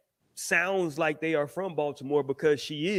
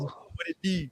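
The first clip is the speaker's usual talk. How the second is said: mock Baltimore accent; 6 dB quieter, slower than usual. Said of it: "I can't imagine them saying".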